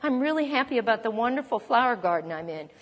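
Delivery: quick, breezy pretend cheer; mock cheerful denial. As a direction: brush the trouble off with fake brightness. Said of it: "Oh, did I say mess?".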